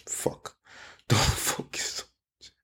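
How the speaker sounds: words lost in breathy, soft laughter; laughing. Real, not acted. Teacher laughing at their own slip, laughing. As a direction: try to talk while cracking up. Cracks up after misspeaking.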